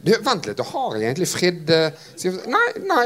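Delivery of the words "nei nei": a sudden squeak of denial, pitched way up; playful startled denial; high squeaky no. Real, not acted. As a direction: yelp it high, caught out. Jokey self-check.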